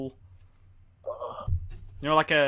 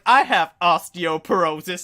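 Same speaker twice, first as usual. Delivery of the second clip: slow, louder whiny complaint; imitating mum; 4 semitones higher, 8 dB louder, slower than usual. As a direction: drag it out like a moaning mum. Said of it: "she goes like".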